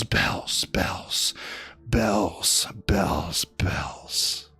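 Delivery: bells dying away into a breathy whisper; fading to a whisper. Acted. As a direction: let the last bells vanish into a whisper. Poem fades to whisper.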